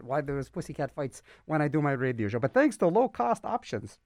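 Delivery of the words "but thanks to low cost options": lively, punched-up PSA delivery; announcer read. Acted. Radio host urges pet owners to learn more, announcer read. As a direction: pitch it to listeners like a radio spot. Reads a public service announcement.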